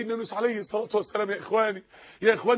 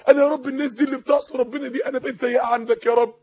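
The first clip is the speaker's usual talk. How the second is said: tearful plea. Acted. Voicing a tearful prayer.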